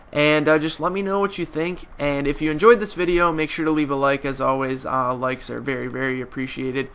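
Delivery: stuffy, nasal sick voice. Real, not acted. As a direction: talk through a blocked nose. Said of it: "Sorry for my nasally voice".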